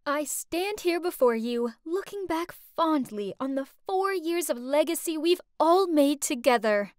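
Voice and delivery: lightly formal speechmaking, addressed to a hall; graduation speech. Acted. Graduate addresses classmates on their years together, speech delivery. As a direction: deliver it as a proud public address.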